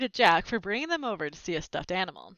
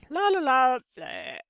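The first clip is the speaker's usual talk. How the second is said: fake burp cover; 5 semitones higher, slower than usual. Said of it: "make it look like I had been burping".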